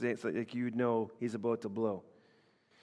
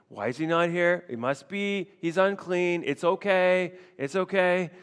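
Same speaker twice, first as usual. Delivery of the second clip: higher, louder mock reassurance; forcing himself to stay calm; self-reassurance; 4 semitones higher, 4 dB louder than usual. Saul reassuring himself, in a higher mock calm. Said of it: "it's almost like self-counsel".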